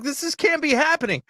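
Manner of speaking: retold disbelief, pitched high; incredulous. Moviegoer telling friends he nearly left, incredulous. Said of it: "I couldn't believe it".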